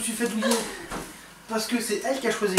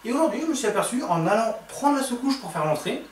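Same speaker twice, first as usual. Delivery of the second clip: narrator voice. Pretend. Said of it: "Je prends ma voix de narrateur".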